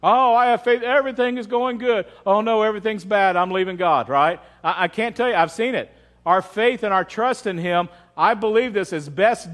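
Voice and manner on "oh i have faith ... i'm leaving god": lightly voiced fair-weather believer, pitched up; mock fickle believer. Preacher mimicking convenient faith for congregation, mocking. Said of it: "one of those convenient when everything is going right faith".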